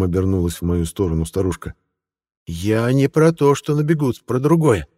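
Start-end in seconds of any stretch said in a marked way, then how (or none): 2.5-4.9 put-on high, slow old lady correcting; stern old woman clarifying. A narrator's reading.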